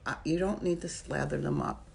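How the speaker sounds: talking with a retainer in; wearing a retainer. Real, not acted. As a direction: retainer in the mouth. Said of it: "I have my retainers in still".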